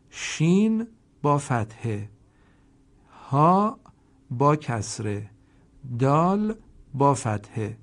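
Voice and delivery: name each letter and its vowel slowly; teacher spelling out each syllable. Shown as a demonstration. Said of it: "هر حرفی با حرکت مخصوص".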